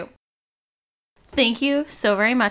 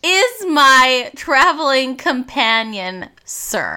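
indignant; 5 semitones higher, 5 dB louder, much slower than usual. Acted. Character defends her rock.

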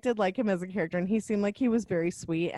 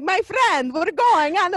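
higher, louder, hammed-up Italian accent; mock bad Italian accent; 8 semitones higher, 6 dB louder than usual. Mocking a film character's bad Italian accent, hammed up. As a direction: overdo a cartoon Italian accent. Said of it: "the worst Italian accent I have ever heard".

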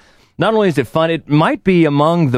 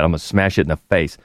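lower, softer dry threat; deadpan tough heroine; 7 semitones lower, 4 dB quieter than usual. Retold or imitated. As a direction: drop it flat and low, bone dry. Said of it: "just the way she says that".

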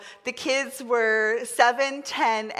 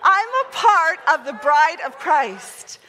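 louder, meaning every word; firm, louder declaration; with conviction; 3 semitones higher, 5 dB louder than usual. Shown as a demonstration. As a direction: declare it like you mean it. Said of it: "Say it like you really mean it".

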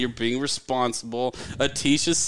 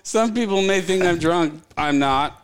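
put-on Vietnamese accent; 4 semitones higher, 4 dB louder than usual. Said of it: "you sound like a drunk".

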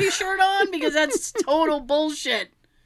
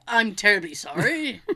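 lightly British, lower; mock British apology; 5 semitones lower than usual. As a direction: apologise like a stiff Brit. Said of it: "only a British person would".

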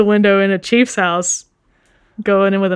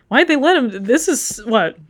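exasperated; 3 semitones higher than usual. Acted. Copper complaining about Chops, read aloud.

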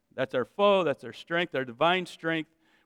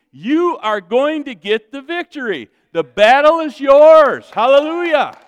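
loud, raised, rousing proclamation; fired-up preaching; 5 semitones higher, 8 dB louder than usual. Real, not acted. Preacher promising victory to congregation, fired-up proclamation. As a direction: preach it at full force.

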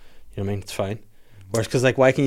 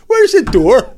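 high, loud computer voice; Hawking voice; 10 semitones higher, 7 dB louder, slower than usual. Retold or imitated. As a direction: bark it like a speech synth.

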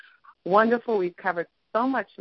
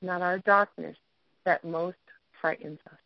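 reading a quote. Shown as a demonstration. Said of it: "And it says".

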